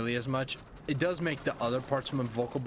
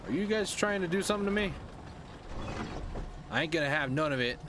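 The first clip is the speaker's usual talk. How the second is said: defiant; 6 semitones higher, faster than usual. Real, not acted. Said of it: "I'm just saying".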